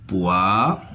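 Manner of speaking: "Poire" split as poi-re, first part rising; syllable by syllable. Shown as a demonstration. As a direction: detach the final "re" of "Poire" after a pause. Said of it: "se compose de deux syllabes". (« Poire » découpé : poi… re)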